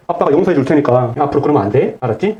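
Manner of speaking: gently spoken father. Retold or imitated. Father gently forgives his child, lightly voiced. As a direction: speak lightly like a gentle dad. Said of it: "라고 부드럽게 말을 했습니다".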